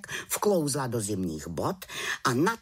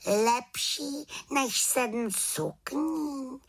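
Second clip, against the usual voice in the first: high, very slow, questioning Lepší než sedm sukní; baffled witch echoing the raven; high rising disbelief on než sedm sukní; puzzled little witch; 12 semitones higher, much slower than usual. Acted.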